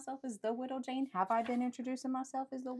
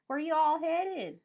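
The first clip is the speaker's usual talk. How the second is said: louder, slow, chewing through the words; mouth full; 7 semitones higher, 7 dB louder, slower than usual. Acted. Widow asking passengers through crumbs. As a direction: ask it mid-chew. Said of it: "Bite, bite".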